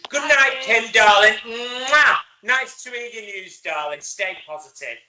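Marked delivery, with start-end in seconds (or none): 0.1-2.2 loud affectionate call. Real, not acted. Host calls goodnight to Kim, loud and fond. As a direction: call to her warmly across the room.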